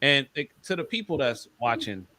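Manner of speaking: talking between bites of food; chewing chicken while talking; eating crunchy fried chicken. Real, not acted. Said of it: "excuse me for eating chicken".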